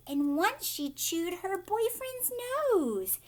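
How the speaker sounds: bouncy sing-song verse reading; rhythmic poem reading. Acted. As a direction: chant the rhyme with a steady beat for children. Reads the Oompa Loompa song.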